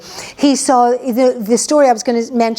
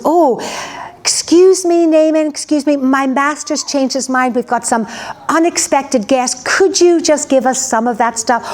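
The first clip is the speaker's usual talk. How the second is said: Gehazi fawning; 4 semitones higher than usual. Retold or imitated. Servant politely stopping the guest to beg, in a high, fawning voice. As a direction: sweetly talk him into giving. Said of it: "he stops and goes".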